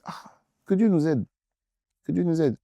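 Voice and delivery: whispered prayer. Real, not acted. Preacher whispers a plea for God's help. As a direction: breathe it as a plea.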